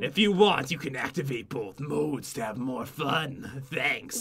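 eerie put-on voice, very low and soft. Explaining game modes to another player, in a creepy voice. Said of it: "Why are you using such a creepy voice?".

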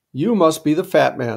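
ordinary talk

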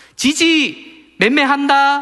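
very high, shrill, shouted yell. A speaker shows how a parent stops a child touching filth; shouted warning. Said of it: "소리치고 막아서야".

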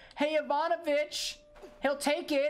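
very high, drawn-out shout directed upward. Calling up to a game character at the top: shouting up to the top. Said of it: "just shout up to the top".

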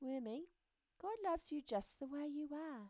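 whispered with a big grin. A butterfly flies down beside his worm friend and speaks to him, whispered with a big grin. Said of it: "He gave a big butterfly grin and whispered".

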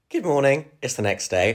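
breaking voice, cracking. Starting a new video clip the next morning, voice cracking. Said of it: "voice crack chick".

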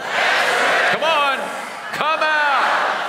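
shouting at full force. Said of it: "Give it everything you got".

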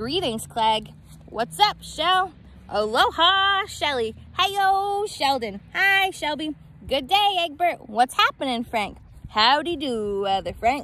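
cheery, glad talking egg character voice. Reading a picture book aloud, the egg greets everyone at the store; talking egg voice. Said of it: "Because I'm a someone. A very someone. / I've always been a someone. It's been this way from the start, even in my earliest days back at the store. There were a dozen of us living together under one recy".

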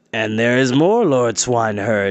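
ordinary delivery

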